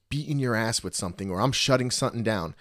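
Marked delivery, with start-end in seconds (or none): 1.3-2.6 thick New Jersey accent on the line. Shown as a demonstration. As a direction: say it like a guy from Jersey. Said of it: "that was my Jersey accent".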